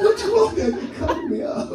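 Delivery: very high squeaky plea, laughing; whiny plea. Retold or imitated. Husband begs his wife for cover, squeaky high plea. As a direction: squeal it like a pampered child. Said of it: "I said".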